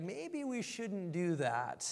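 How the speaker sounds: slow, careful voice of the wise person; slow hesitant caution; cautious wise person. Retold or imitated. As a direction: drag it out like someone weighing the risk.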